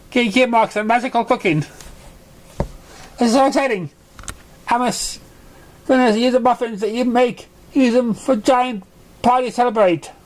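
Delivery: high, bouncy excited pony voice with giggles; bubbly Pinkie Pie. Acted. Pinkie greets the Crusaders in her kitchen, high and bubbly. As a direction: bounce through it like an overexcited party pony. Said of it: "Pinkie says drastically".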